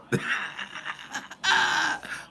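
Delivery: high-pitched burst of laughter; laughing. Real, not acted. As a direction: break into a long, high laugh. Laughing at own joke.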